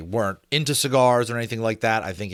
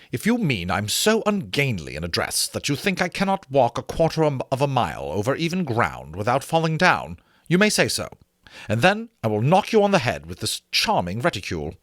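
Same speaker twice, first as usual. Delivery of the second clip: Jane, teasing; 4 semitones higher than usual. Acted. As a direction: tease him, half laughing. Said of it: "she said with her deep laugh".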